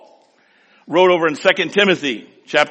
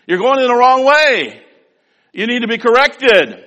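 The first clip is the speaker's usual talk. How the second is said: stern correction; 8 semitones higher, 5 dB louder than usual. Acted. Acted correcting rebuke.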